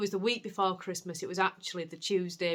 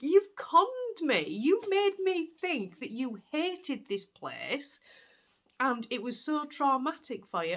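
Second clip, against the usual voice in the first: much higher, slow and louder, playfully accusing; mock betrayal; 8 semitones higher, 5 dB louder, slower than usual. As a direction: scold the cat in mock outrage. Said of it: "I felt really like".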